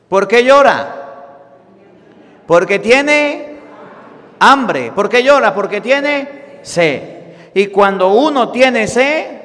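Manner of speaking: loud, high pulpit call to the women; fervent preaching. Acted. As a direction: press the question on the congregation. Preaching at full force.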